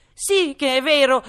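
high loud protest; high insistent hatter. Acted. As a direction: insist shrilly. (protesta acuta)

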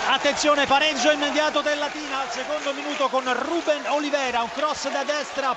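breathless italian goal commentary. Real, not acted. Announcing equaliser live on radio.

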